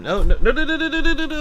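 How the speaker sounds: loud, rising string of no's; real panicked no, no, no; alarmed no. Real, not acted. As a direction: stop the cat before it wrecks the desk. Cat misbehaving on desk.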